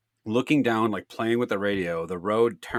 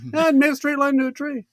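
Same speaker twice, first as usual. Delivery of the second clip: sarcastic mimicry. Sarcastic imagined reply about crash.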